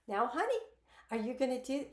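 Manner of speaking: put-on talking down like to a child; sugary parental tone, talking down; condescending. Shown as a demonstration. Coach demos talking down to an adult partner, condescending. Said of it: "if you have an adult in your life and you say".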